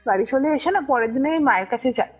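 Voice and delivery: usual speaking voice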